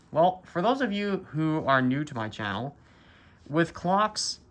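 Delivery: talking through a face mask; muffled, mask over mouth. Real, not acted. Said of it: "I'm wearing a mask. That's why I sound muffled".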